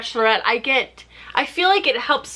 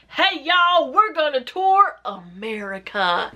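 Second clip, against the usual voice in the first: mock Chris; slower than usual. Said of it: "He's like".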